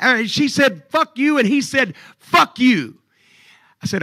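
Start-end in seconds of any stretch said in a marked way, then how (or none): 0.9-1.4 high-pitched, loud mock retort; angry wife. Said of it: "she's hot". 2.2-3.0 loud mock comeback, pitched up; angry retort. Retold quarrel, wrestler retorts.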